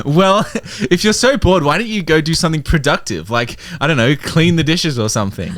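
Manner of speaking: acted chiding. Friend to bored Jim on the couch, chiding. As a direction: needle them, easing down as you go.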